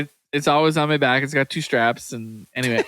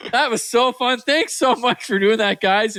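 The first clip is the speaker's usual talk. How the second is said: higher-pitched, gleeful imitation of a relieved prankster; delighted thanks; 4 semitones higher than usual. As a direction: thank them as if the joke thrilled you. Officer drops stern act behind door.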